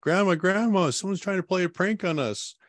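put-on high, excited child calling grandma; a child alarmed calling for grandma; young kid's voice. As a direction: pitch way up like a little kid. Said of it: "I just hear this young kid's voice".

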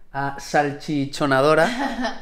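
slow, laughing, tripping over salchichonadora; laughing through the word. Real, not acted. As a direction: giggle while fumbling salchichonadora.

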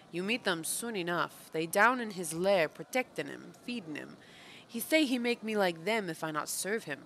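a hint of a deposed pit king, broken grammar; lightly voiced pit creature. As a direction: lightly act out a sullen underling. Reads game character's dialogue aloud.

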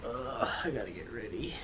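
tired whispered sigh; whispering. Real, not acted. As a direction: breathe it out, barely voiced. Tired aside.

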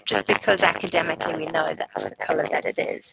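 glitchy robotic mic voice. Real, not acted. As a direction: voice breaking up like a robot. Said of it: "your mic seems to be giving you robot voice".

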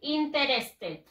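interested read as written, "in-te-res-ted"; spelling pronunciation of interested, slow; read as spelled. Shown as a demonstration. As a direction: say all four written syllables of "interested". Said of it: "Así se escribe".

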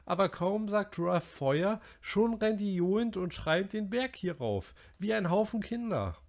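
high, loud outburst; Piggy losing his temper. A narrator's reading. Piggy furious at the boys for laughing, loud and high. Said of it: "Piggy platzte der Kragen".

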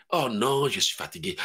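mock tired whine, pitched low and soft; playing a weary believer dodging prayer; lazy believer. Preacher mocks a tired believer, low weary whine.

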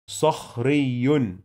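صخري slowly, the ياء doubled and ending in "un"; slow tanween demo. Shown as a demonstration. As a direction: draw out صخري as "sakhriyyun". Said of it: "حرف الياء بيتنطق مرتين". (نطق صخري ببطء بالشدة والتنوين)

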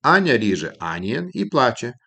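sing-song memory line, "Аня" first; mnemonic phrase. Shown as a demonstration. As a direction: stress on "Аня", rhyming with "анієн". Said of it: "Наприклад".

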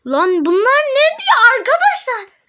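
breathy secret whisper to the camera. Real, not acted. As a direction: hush it like sharing a secret. Whispering to viewers about chat.

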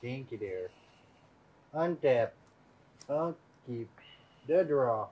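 put-on British accent, lightly done; fake British accent. Player hamming a fake British accent at the game table. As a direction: play the Brit to the table, mildly. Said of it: "Listen, the accent supersedes game actions".

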